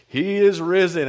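slow, lightly voiced Southern preacher; deep Southern pastor. Pastor announcing Easter news to the congregation, mild deep Southern voice. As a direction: proclaim it slowly with a hint of Southern. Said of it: "deep Southern voice".

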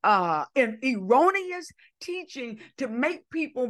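emphatic sermon delivery; impassioned preaching. Real, not acted. Preacher correcting an erroneous teaching, impassioned. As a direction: preach it with conviction.

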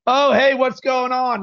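mock an amateur fumbling into the show; clunky amateur opener. Shown as a demonstration. Coach mimics an amateur podcaster's opener, clunky greeting. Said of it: "clunk it all up".

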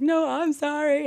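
hammed-up girly insistence; emotional girl. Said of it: "just being a bunch of girls".

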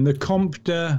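Comte said slowly, rising as a query; asking for the name. Shown as a demonstration. Co-host asks to hear the French name again. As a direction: try out Comte de carefully. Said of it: "I want that one again".

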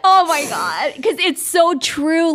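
tearful, drawn-out sincerity; slow, moved, through tears; real crying. Real, not acted. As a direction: overcome by how true it is. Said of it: "I'm actually crying right now".

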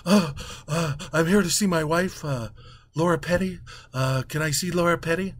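stammering, breathless husband; out-of-breath Matt Damon. Retold or imitated. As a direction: gasp it out, hesitating. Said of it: "comes running in like he's out of breath".

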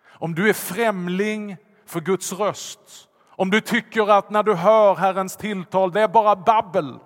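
loud, high, rising sermon fervour; preaching at full force. Acted. Pastor preaching to the congregation with loud fervour. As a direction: preach it out to the whole church.

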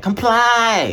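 loud, high, drawn-out order; belted mock command; mock shouted command. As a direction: shout it like a crowd demanding obedience. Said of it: "Everybody's like".

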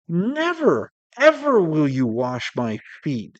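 a preacher voicing Peter's indignant no; Peter's refusal. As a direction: refuse him outright, shocked at the idea. Peter refusing Jesus, narrated quote.

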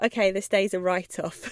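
laughing it off, resigned; a rueful chuckle through the words. Retold or imitated. Telling listeners the day was lost, with a rueful laugh. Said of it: "and I just thought".

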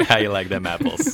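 put-on a light, half-done Boston accent. Friend quoting the movie in a light Boston accent. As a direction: toss it off in a mock Boston accent. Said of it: "Trying to do, like, a Boston accent".

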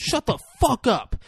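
high, exasperated mock snap; mock exasperated outburst. Pratt scolds her for drawing the dinosaur, mock exasperation. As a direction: burst out with it, voice jumping up high.

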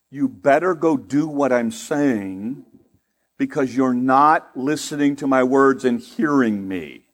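slow translation. Retold or imitated. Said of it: "That's Gene speak for".

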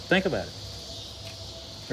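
whisper. Real, not acted.

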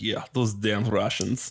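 slow, drawn-out mock Russian accent; lightly put-on Russian accent. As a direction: imitate a Russian coworker, unhurried Russian accent. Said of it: "we have a Russian guy on our team".

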